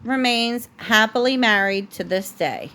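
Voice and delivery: steady, gentle bedtime storybook read; reading a story to a child. A narrator's reading. Parent reading The Princess and the Pea to a child at bedtime, gentle storybook voice. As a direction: read it like a bedtime book for a little one. Reads picture book to child.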